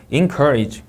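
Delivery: ENCOURAGE, weight on the middle; second-syllable stress. Shown as a demonstration. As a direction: ENCOURAGE with COUR hit. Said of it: "이음절 강세".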